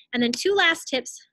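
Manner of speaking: breathless after talking fast; winded, short on air; out of breath. Real, not acted. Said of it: "I'm, like, so out of breath".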